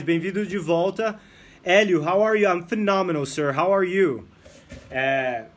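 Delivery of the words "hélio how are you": loud greeting. Real, not acted. Greeting a student loudly.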